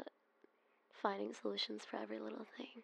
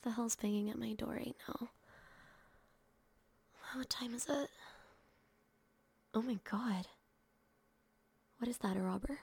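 startled alarm. Acted. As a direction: react to a sudden knock in the night. Woken by banging at door.

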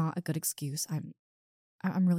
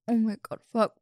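stunned whisper; 4 semitones higher than usual. Acted. Stunned by his answer.

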